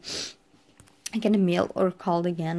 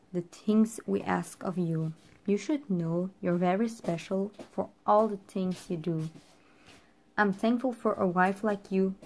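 calm, even recital of a love poem; poem reading. Acted. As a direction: read it through line by line, gently. Reads the poem again.

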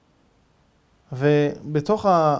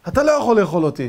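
defiant; 4 semitones higher, 5 dB louder, faster than usual. Retold or imitated. Sudden bold claim.

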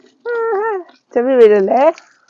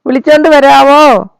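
louder, drawn-out repeat of വിളിച്ചോണ്ട് വരാവോ; louder slower ask; 3 semitones higher, 6 dB louder than usual. Shown as a demonstration. Owner repeats the request to fetch Juicy, louder and slower. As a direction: call it out slowly and louder, stressing വിളിച്ചോണ്ട്. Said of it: "ജൂസിയെ പോയി വിളിച്ചോണ്ട് വരാവോ?".

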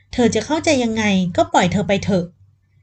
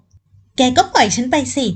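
angry yell; 3 semitones higher, much slower than usual. Acted. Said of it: "ตะโกนใส่หน้าเขาด้วยความโมโห".

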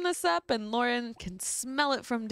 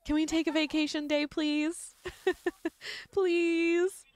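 pleading please, rising high; begging; 5 semitones higher than usual. Pretend. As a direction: beg sweetly for a day off. Begging for vacation day.

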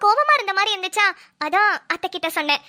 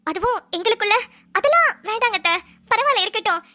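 sugary act. Pretend. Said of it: "நம்மளோட performance கொஞ்சம் இருக்கணுமே".

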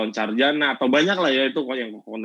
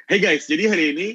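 bright smiling opener; 3 semitones higher, 3 dB louder than usual. Shown as a demonstration. YouTuber demoing a smiling intro for students, bright upbeat greeting. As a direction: lift "Hey guys" up with a smile. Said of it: "sama kayak gini".

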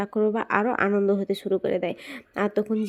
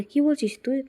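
higher-pitched, astonished question; mildly acted disbelief, pitch lifted; amazed; 5 semitones higher than usual. Father astonished at the news he is told, amazed. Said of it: "অবাক হয়ে যায় আর বলে".

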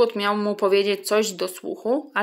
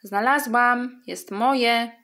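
mild mock shriek; 3 semitones higher, slower than usual. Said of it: "wrzasnęła wielkim głosem".

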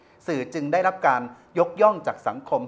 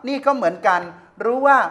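louder, higher indignant ranting; heated rant; 8 semitones higher, 8 dB louder than usual. Real, not acted. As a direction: hammer home his outrage at the press. Host continues heated rant.

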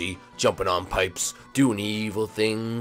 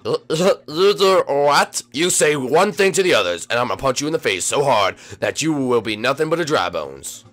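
menacing threat; 5 dB louder than usual. Acted. Morton threatens his cousin.

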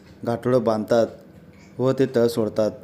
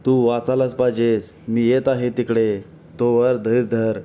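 a mildly raised urgent call, slowing at the end; calling out urgently. Acted. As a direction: call out a warning to a devotee far off, understated. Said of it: "असे मामा ओरडत असतात".

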